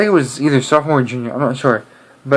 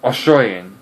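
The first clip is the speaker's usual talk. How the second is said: Australian accent; 3 semitones lower than usual. Shown as a demonstration.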